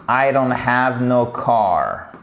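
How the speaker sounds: slow demo of "I don't have no car"; colloquial English example. Shown as a demonstration. French teacher showing learners what they may hear, colloquial English example. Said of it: "vous allez entendre des choses comme".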